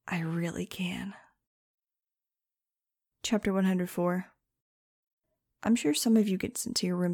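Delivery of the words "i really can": soft, slow unvoiced whisper; whispered threat. A narrator's reading. Daughter whispering defiance at her mother, soft and slow. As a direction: whisper it quietly, slowly. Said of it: "I whispered".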